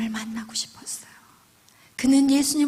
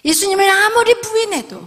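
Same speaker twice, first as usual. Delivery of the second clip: 예수님을 아무리 부인해도 higher and much louder; forceful repeat; 6 semitones higher, 9 dB louder than usual. Acted. Preacher driving home the repeated line, loud and high.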